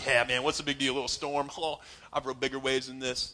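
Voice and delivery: imagined disciple shrugging off the storm, laid-back; chill bravado. Pretend. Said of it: "Just chilling out".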